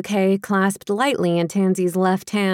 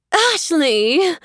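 high alarmed call of her name; mother calling out to her hurt daughter, alarmed; alarmed cry; 8 semitones higher than usual. Acted.

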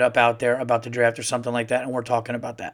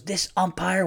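imitating son; 6 semitones higher than usual. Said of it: "he goes".

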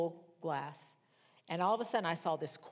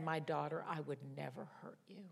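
soft, lowered, tender reassurance; softly voiced fatherly comfort, fading; gentle, loving father; 3 semitones lower, 7 dB quieter than usual. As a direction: speak as a loving father to his daughter. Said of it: "most gentle, loving, fatherly voice".

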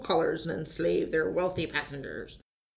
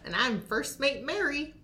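put-on pirate accent; 7 semitones higher than usual. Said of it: "hosting things with a funny accent".

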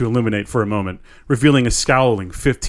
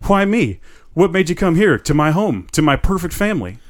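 higher pitched, trembling plea; frightened plea; 7 semitones higher than usual. Acted. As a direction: ask it scared, pitched up. Trembling man pleads with figure.

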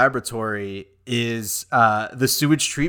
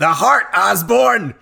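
slow, hammed-up villain cry; mock Goblin; 7 semitones higher, 5 dB louder, slower than usual. Quotes the villain slowly in a mock Goblin voice. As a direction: boom it like a movie villain.

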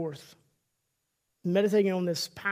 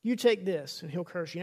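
accusing Satan; 4 dB louder than usual. Acted. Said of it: "it's accusative".

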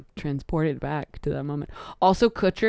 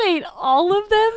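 surprised; 13 semitones higher, 5 dB louder than usual. Real, not acted. Surprised reaction to claim.

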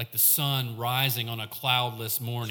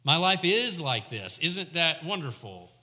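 mock delight; 3 semitones higher than usual. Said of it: "Some have David saying".

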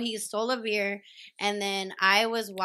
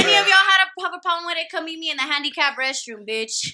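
mock tough challenge; 3 semitones higher, 7 dB louder than usual.

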